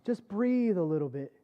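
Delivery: soft, coaxing bedside voice; gentle reassurance. Retold or imitated. Anesthesiologist pressing the mask on, gently reassuring. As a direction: ease the patient into breathing. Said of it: "he was so gentle".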